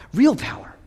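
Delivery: proclaimed to the church. Real, not acted. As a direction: lift it up the second time.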